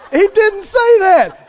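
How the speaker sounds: loud, high, laughing cry; laughing shout. Real, not acted. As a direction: burst out laughing mid-line.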